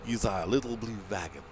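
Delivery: put-on half-hearted go at a foreign accent; badly faked European accent; attempted foreign accent. Vlogger retrying his blue wagon line, fumbled foreign accent. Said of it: "I can't do French".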